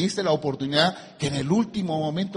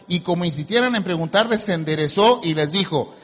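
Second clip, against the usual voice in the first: emphatic pulpit reading with weighty pauses; scripture reading; 2 semitones lower than usual. Acted. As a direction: read it out, slowing at the close. Reads scripture to congregation.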